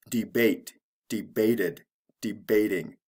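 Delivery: de-BATE, de-BAT-ed, de-BAT-ing, spaced out; unchanged stress. Shown as a demonstration. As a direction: keep the stress on the second syllable of debate, debated, debating. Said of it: "There's no stress change".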